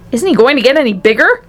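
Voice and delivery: lightly acted shout; mild shout. A narrator's reading. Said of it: "shouted Mister T V".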